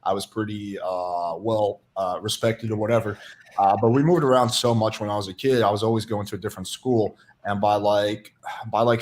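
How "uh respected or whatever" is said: ordinary delivery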